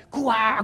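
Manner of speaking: high mock bawl; imitated child crying. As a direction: mimic a wailing toddler. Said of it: "那个孩子就大声哭".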